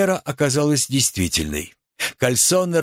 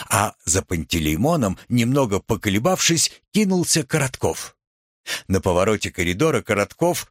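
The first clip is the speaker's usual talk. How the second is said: ordinary delivery, nothing marked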